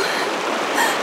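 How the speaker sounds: airy high laugh; squealing laugh from the cold; breathless squeal. Real, not acted. In icy river.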